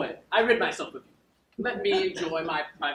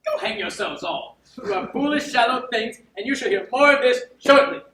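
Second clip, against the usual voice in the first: indignant; 5 semitones higher, 6 dB louder than usual. Acted. Malvolio storms off raging.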